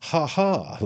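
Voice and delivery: high, loud spoken "ha, ha"; hammed-up laugh of a flattered attorney; acted laugh. A narrator's reading. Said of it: "laughed Mister Pell".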